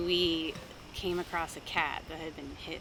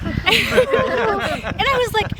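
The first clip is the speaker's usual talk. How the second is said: drawn out high and loud, winding up; rising panic; 12 semitones higher, 12 dB louder, much slower than usual. Retold or imitated. Retelling the swerve with mom, climbing into a yell. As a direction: stretch it as the alarm builds. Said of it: "angry in a different way".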